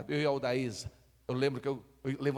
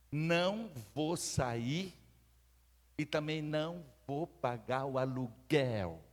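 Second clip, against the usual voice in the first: mild stubborn tenant; slower than usual. Retold or imitated. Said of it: "ela só falou assim".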